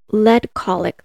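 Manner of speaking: skeptical repeat. Real, not acted.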